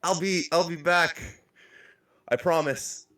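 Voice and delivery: high, small tearful voice; acted tearful voice. Nar promises the party to return, high tearful voice. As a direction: try a high-pitched crying promise. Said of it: "starts to cry".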